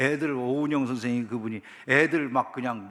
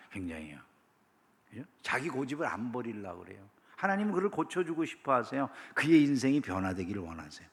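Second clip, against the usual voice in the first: ordinary delivery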